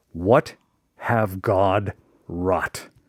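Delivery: low, slow, somber reading. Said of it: "So somber".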